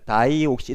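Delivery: 다이옥시 with a full dai at the start; spelled-out new pronunciation. Shown as a demonstration. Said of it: "이렇게 쓰기로 했으니까".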